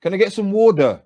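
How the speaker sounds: loud, flat American "Can I get some water?"; Americanised British speaker; mock American accent. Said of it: "then I went".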